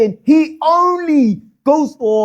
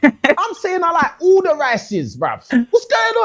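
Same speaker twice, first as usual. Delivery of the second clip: laughing tease; 6 semitones higher than usual. Real, not acted. Host teasing, laughing.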